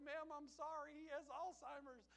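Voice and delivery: high, loud hurried apology; smooth things over with the startled mother; loud, high sheepish apology; apologetic grandson. Retold or imitated. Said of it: "And I was like".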